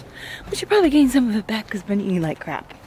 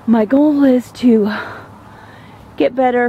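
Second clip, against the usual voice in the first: winded from the uphill walk; breathless, catching air between words; out of breath; 4 dB louder than usual. Real, not acted. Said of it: "I'm out of breath here".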